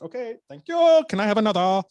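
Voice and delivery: high, loud mock gratitude; sarcastic. Mocking the boss after her rebuke, high sarcastic thanks. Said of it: "she kicked".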